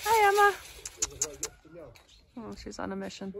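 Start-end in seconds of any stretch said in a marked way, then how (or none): 0.0-0.5 high, loud pet greeting; greeting the dog. Real, not acted. Owner greeting her returning dog, high and loud. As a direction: call out happily to the dog.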